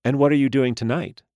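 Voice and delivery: high, bright doll voice; a chirpy toy speaking through a speaker; talking doll. A narrator's reading. Doll voice again.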